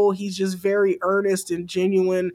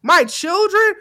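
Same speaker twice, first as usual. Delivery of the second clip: imitating Keith Lee; 6 semitones higher than usual. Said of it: "He was like".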